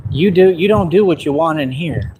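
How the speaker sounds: imitating the officer like a film warning, trailing into a whisper; dramatic movie line. Officer warning the panhandler like a movie scene, dramatic hushed finish. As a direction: deliver it like a movie tough guy, drop to a whisper at the end. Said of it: "That's exactly the way he said it".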